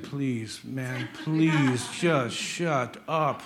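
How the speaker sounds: slow, drawn-out mock plea; exasperated pleading. Preacher imagines answering a complainer, slow exasperated plea. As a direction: beg wearily, spacing out each word.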